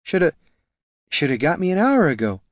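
high, tipsy reproach; drunken blaming. A narrator's reading. Drunk ranger blaming the dwarf for lateness, tipsy. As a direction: blame him like a drunk.

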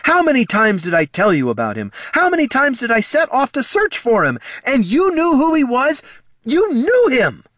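loud, high-pitched outrage; furious, wounded shouting; thunderous anger. Acted. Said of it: "Thunder roared in Katha's voice".

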